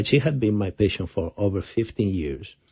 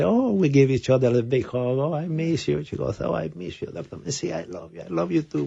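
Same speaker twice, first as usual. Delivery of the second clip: retold affectionate greeting; 6 semitones higher than usual. Retelling an affectionate reunion hug.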